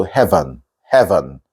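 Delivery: "heaven" as "hev'n", v running into n; almost silent E. Shown as a demonstration. Teacher modelling the word, reduced "heaven". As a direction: go straight from v to n in "heaven". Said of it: "like that".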